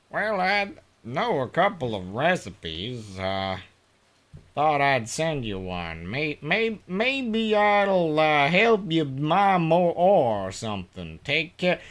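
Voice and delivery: reading a letter in a southern drawl; folksy southern drawl, easygoing letter read. Acted. Reading game letter in character.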